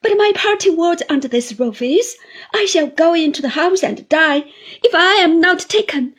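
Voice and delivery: put-on high, loud, crying old widow's plea; tearful pleading. A narrator's reading. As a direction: beg to be taken along, sobbing into it. Mrs Gummidge's long tearful plea.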